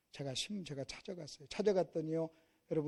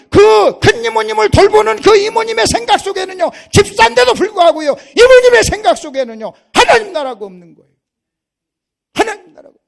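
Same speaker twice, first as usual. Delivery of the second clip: high, shouted sermon delivery; impassioned preacher shouting to the congregation; full-force preaching; 25 dB louder than usual. Real, not acted. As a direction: drive each phrase home at full volume.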